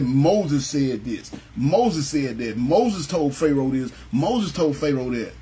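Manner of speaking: each line slow and deliberate; slow emphatic reading. Shown as a demonstration. Preacher reciting scripture to the church, slow and weighty. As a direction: spell out every Moses line slowly. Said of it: "it said".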